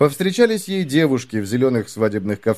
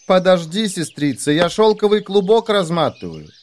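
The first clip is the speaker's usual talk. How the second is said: distant sister voice; 7 semitones higher than usual. Acted. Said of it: "отвечает ей с горы".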